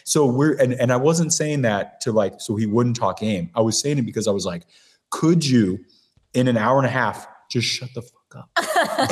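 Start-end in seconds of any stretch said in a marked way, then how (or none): 5.1-9.1 halting, spaced-out retold request; comic exasperation, replayed; mock exasperated plea. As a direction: plead in separate chunks, dragging out the ending. Retold exasperated plea to stop talking.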